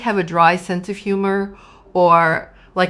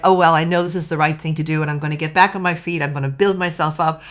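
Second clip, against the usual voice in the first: determined pep talk; 4 dB louder, faster than usual. Retold or imitated. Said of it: "But you were like".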